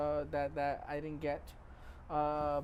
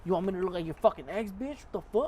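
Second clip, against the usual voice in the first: toxic thought. Retold or imitated. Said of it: "My first toxic thought".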